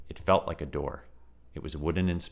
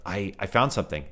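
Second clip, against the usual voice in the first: out of breath; 2 semitones higher, 4 dB louder than usual. Acted. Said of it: "could barely catch his breath".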